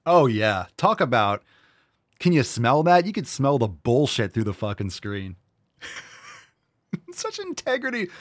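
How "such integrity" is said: very high laughing sneer; laughing sarcasm. Acted. Mocking Newsom's praise, laughing sarcastically. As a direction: laugh it out in mockery.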